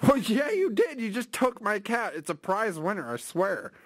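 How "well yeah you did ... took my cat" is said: indignant retort. Pretend. Caller contradicting the clerk.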